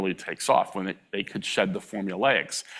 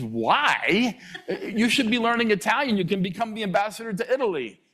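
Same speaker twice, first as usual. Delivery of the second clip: lightly voiced dad, higher, brushing it aside; a touch of a dismissive father; imitated dad; 12 semitones higher than usual. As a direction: play the dad dismissing the idea with a hint of mock bluster. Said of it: "He says".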